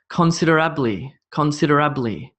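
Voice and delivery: considerably with the stress moved late, toward ABLY; stress shifted in considerably. Shown as a demonstration. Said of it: "where we place the stress".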